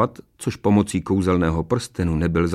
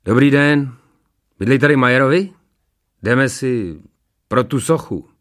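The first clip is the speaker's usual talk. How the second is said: loud, higher workman at the door; gallery workman; 4 semitones higher, 5 dB louder than usual. A narrator's reading. Uniformed gallery worker calling on householders, businesslike. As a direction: announce yourself loudly at a stranger's door.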